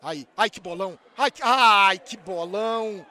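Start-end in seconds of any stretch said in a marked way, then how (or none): 1.2-3.0 loud cry, then slow stretched words; drawn-out fan admiration; awed exclamation. Real, not acted. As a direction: savor the great ball. Reacting to a great pass.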